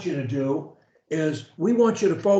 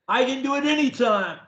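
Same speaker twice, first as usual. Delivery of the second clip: with energy; 5 semitones higher, faster than usual. Shown as a demonstration. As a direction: sell it with energy and conviction. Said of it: "the way I do, with energy".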